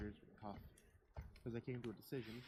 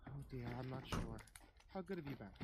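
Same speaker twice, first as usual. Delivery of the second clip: joking mother; 3 semitones higher than usual. Acted. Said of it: "she joked".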